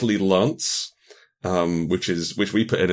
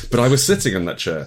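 mock startled NPC; 6 semitones higher, 5 dB louder than usual. Role-play of startled NPC.

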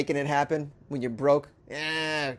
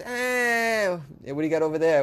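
put-on kid voice; 2 semitones higher than usual. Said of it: "All the kids".

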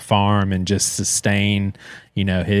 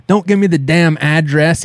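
higher, sharp mock-angry retort; irritated uncle; 6 semitones higher than usual. Grumpy uncle snapping at nephew about directions, mock-angry. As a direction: snap back like a grumpy uncle.

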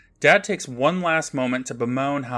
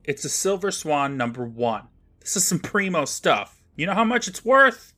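boastful show-off; 3 semitones higher than usual. Acted. Skipper brags to Dad about his comic, boastful. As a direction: show off a prized find. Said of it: "pulls a comic from a pile and says".

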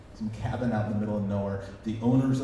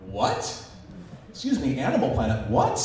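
mock outrage; 4 dB louder than usual. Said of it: "for him to go".

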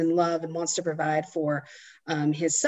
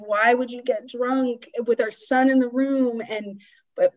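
higher-pitched mock exasperation; retold scolding; 5 semitones higher than usual. Husband confronts wife over getting drunk, mildly imitated scolding. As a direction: scold as if quoting an upset husband.

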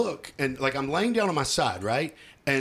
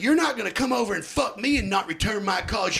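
cussing him out; 5 semitones higher than usual. Retold or imitated. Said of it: "cussing him out".

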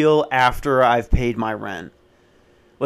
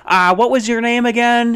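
pitched way up, offhand; squeaky clueless landlord; high mimic voice; 11 semitones higher, 4 dB louder than usual. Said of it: "and he goes".

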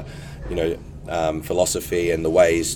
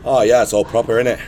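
louder, higher put-on Manchester accent; 4 semitones higher, 5 dB louder than usual. Shown as a demonstration. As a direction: do a quick burst of Mancunian. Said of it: "Can you do a Manchester accent?".

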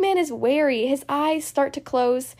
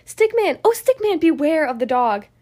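warning call; 3 dB louder than usual. Acted. Warning voice in story refrain.

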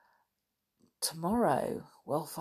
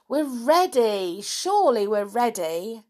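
louder, higher eager calling; calling out excitedly; 5 semitones higher, 6 dB louder than usual. A narrator's reading. George capering about with the others, calling out excitedly. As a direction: call out that you're ready to go. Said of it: "laughing and calling out with the others".

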